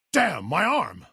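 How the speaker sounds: high, pained exclamation; wounded outcry. Acted. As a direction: cry out at a sudden injury. Crying out when wounded.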